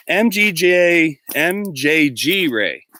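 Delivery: sounding out the username slowly; slow careful spelling. Real, not acted. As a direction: struggle through the letters one by one. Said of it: "I can't even say that".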